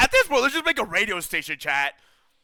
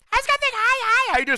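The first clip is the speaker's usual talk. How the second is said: higher, bright sing-song hello; high cheerful greeting; 3 dB louder than usual. Real, not acted. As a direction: greet a friend warmly.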